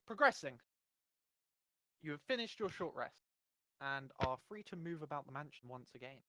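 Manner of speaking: formal scene-setting announcement; game master narration. Acted.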